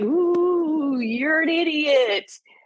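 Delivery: very slow, high, drawn-out ghostly moan, long ooh. Talking about ghosts in our house that make us self-sabotage: ghost impression. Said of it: "did you like my impression of a ghost?".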